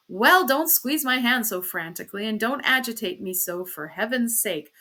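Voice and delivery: peevish, put-upon objection; irritated protest. Acted. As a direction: fend off an overwrought partner. Husband protests at wife's frantic grip.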